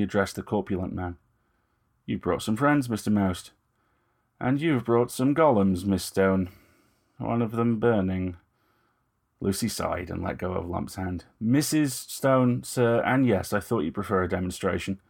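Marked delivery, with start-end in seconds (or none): 2.1-8.4 Lucy's measured, slightly raised voice; Lucy, poised young woman. Acted. Lucy speaks to Moust. 11.4-15.0 Lucy's measured, slightly raised voice; Lucy, poised young woman. Acted. Lucy corrects Moust.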